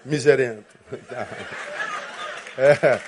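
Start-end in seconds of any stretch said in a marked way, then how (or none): 0.9-2.5 breathy silent chuckle; a short unvoiced snicker; stifled laugh. Real, not acted. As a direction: laugh under the breath at his own word. Laughing at his insult.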